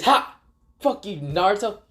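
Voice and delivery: high, taunting exclamation; gloating jeer. Retold or imitated. Dragon taunting Naruto after the tie, gloating jeer.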